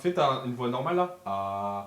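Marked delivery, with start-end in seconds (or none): 1.3-1.9 deep voice. Shown as a demonstration. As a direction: drop to a low, deep "ah". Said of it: "qui a la voix la plus grave".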